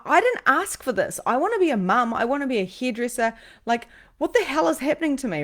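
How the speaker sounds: high, loud indignant complaint; angry protest. Retold or imitated. Medium objecting to what is happening to her, angry high protest. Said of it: "I'm actually angry".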